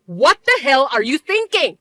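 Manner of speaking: mother-in-law scolding her son's wife; angry scolding. Acted. Mother-in-law snapping at her daughter-in-law, angry.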